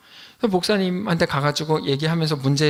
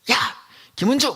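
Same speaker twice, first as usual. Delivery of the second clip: brief demonstrated call-out, raised in pitch; mock yell at someone; 5 semitones higher than usual. Shown as a demonstration. Preacher showing how people yell at someone, mildly raised mock shout. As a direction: play at yelling someone's name. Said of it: "뭐 이런 식으로".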